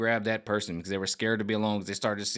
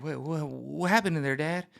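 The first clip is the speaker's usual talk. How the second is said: curious son; 5 semitones higher than usual. Retold or imitated. Son in the car voiced.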